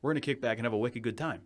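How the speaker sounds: thick New England accent; casual New England drinking-buddy talk. Shown as a demonstration. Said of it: "I can immediately turn it on".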